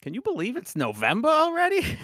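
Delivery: put-on high, loud, shouting old man. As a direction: yell it like a cranky grandpa. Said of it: "my go-to old man voice".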